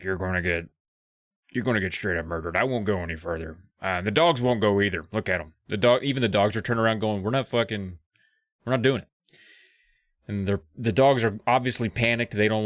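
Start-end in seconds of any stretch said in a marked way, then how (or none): 0.0-9.1 gruff guide. Acted. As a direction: warn them off, low and grumbling. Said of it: "Arthur's like".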